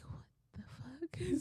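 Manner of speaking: soft, slow, high-pitched bafflement; hushed incredulous reaction; retold disbelief. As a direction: say it under your breath, slowly, in disbelief. Her retold baffled reaction to lies.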